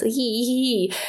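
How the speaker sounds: soft high hee hee hee; a little creepy vampire titter; podcast host ends with a soft, high vampire giggle. Shown as a demonstration. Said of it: "I do my vampire voice".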